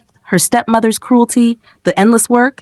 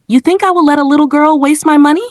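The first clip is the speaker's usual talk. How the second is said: hissed; 7 semitones higher, faster than usual. A narrator's reading. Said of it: "she hissed".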